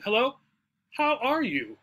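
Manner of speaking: "are" lifted and stressed in "how are you". Shown as a demonstration. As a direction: greet with the weight on "are". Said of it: "we might stress the word are".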